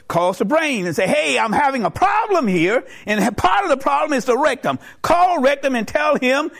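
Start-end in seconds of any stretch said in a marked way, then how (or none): 1.0-6.5 higher-pitched insistent grievance; comic exasperated demand; mock urgent complaint. Lungs complain urgently to brain.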